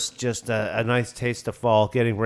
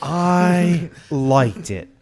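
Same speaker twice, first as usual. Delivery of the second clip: slow, intimate, drawn out; mock ASMR delivery; slow breathy ASMR voice; 5 semitones higher, 5 dB louder, much slower than usual. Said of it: "Are you doing A S M R".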